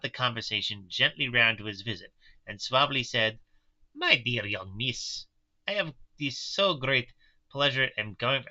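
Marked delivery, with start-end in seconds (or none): 3.9-8.4 put-on slipping Russian accent. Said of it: "I feel I'm going Russian".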